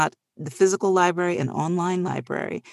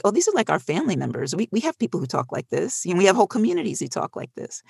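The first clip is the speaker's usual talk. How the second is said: excited discovery; 3 semitones higher, faster than usual. Retold or imitated.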